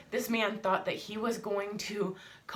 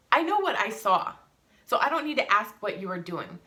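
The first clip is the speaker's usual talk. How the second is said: loud confrontation; 3 semitones higher, 5 dB louder than usual. Retold or imitated. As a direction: shout it back at him. She confronts the man.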